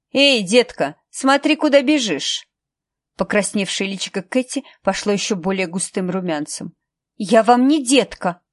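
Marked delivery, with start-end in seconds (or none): 0.1-2.5 cold woman's voice. Acted. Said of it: "холодный женский голос". 7.2-8.4 put-on loud, slow, offended girl; indignant retort. Katie snaps at Marla.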